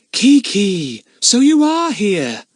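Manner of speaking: high, loud, slow relieved cry. A narrator's reading. Lucy Ann crying out, relieved to find the parrot. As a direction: call out in relief at finding her. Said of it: "cried Lucy Ann".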